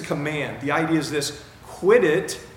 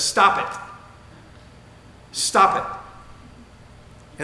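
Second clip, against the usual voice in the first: raised, higher-pitched mock yell; retold yell; 4 semitones higher, much slower than usual. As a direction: imitate a counselor yelling, held back. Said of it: "he yells at her".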